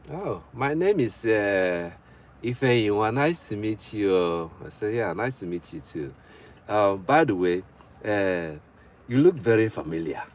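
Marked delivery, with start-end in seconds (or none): 0.1-4.5 put-on slow African-accented woman's reply. Woman introducing herself to a man, African accent. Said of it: "say it in, in the African tone". 5.0-10.2 put-on polite African-accented small talk. Man trying a line on a woman he just met, African accent. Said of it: "say it in, in the African tone".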